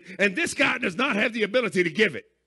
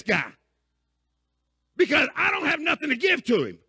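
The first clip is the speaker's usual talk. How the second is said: urgent plea; 5 semitones higher than usual. Retold or imitated. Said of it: "He's beating on the door and tells you".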